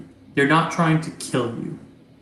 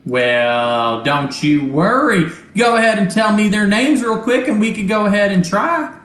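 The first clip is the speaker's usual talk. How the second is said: high, loud, stuttering robot voice; a glitchy robot stammering its words, pitched up; 6 semitones higher, 5 dB louder than usual. Acted. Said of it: "a robotic voice come over and goes".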